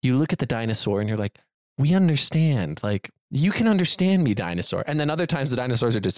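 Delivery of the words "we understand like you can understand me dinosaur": mock earnest. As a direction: parody a sappy bond with the dinosaur. Mocking characters talking to dinosaur.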